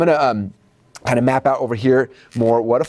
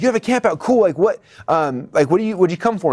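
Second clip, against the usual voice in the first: keen salesperson; 5 semitones higher than usual. Acted. Salesperson reacting keenly.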